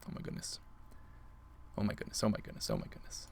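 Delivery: hushed, disbelieving whisper; awed whisper. Real, not acted. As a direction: breathe it out in awe. Tense moment in game.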